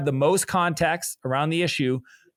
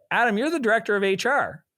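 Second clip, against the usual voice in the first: higher, half-laughing disbelief at Adam; a retold mild exasperation, pitched up; exasperated retelling; 6 semitones higher than usual. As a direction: replay the moment you told him off, amused. Retelling pushing back on HR director.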